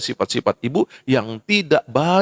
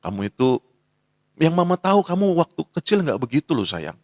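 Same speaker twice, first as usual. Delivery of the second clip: tender mother. Retold or imitated. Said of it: "Panggil dia".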